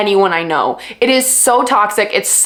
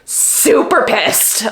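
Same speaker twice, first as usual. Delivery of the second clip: slow low grumble; 3 semitones lower, much slower than usual. Real, not acted. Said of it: "feel so upset right now".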